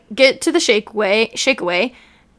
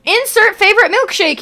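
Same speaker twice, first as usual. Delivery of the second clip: emphatic reread; 10 semitones higher, 4 dB louder than usual. Real, not acted. Rereads after outburst.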